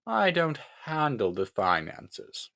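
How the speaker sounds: slow, mildly irritated reply; slightly annoyed. Acted. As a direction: drag it out with a touch of annoyance. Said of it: "slightly annoyed".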